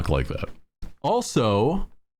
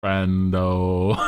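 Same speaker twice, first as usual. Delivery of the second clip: buddy greeting; slower than usual. Retold or imitated. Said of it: "I'm more like".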